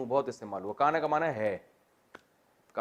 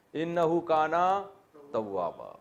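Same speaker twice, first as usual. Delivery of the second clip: Quranic recitation; 3 semitones higher, much slower than usual. Shown as a demonstration. Closing recitation of the verse.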